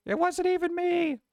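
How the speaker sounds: put-on high whiny kid protest; mock kid whine. Teacher mimics kid denying blame, high whine. Kids yelling in class.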